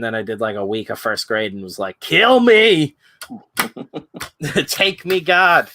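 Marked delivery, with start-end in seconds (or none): 2.0-5.7 high, loud hammed-up plea to heaven; mock anguished cry. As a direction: wail it like a kid begging to be taken. Kid mocking first grade despair.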